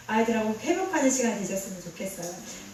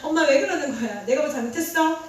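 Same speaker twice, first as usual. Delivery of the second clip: mock scared child; 4 semitones higher, 5 dB louder than usual. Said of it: "이렇게 할 수 있겠죠".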